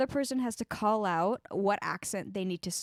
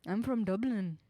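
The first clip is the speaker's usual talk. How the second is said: attempted Irish accent. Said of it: "trying to do an Irish accent".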